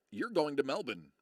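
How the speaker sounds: Melbourne as MEL-bin; corrected pronunciation. Shown as a demonstration. Streamer insists to the Yanks, Melbourne said MEL-bin. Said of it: "No, you're not".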